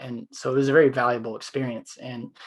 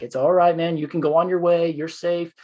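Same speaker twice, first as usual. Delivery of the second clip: higher and louder, firm but soothing; calming reassurance; 5 semitones higher, 4 dB louder than usual. Retold or imitated. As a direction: settle a man who is losing it. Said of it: "I kept telling him he's okay".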